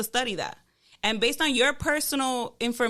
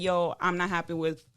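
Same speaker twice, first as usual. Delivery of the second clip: calm acted complaint; 5 semitones lower than usual. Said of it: "How do you say that?".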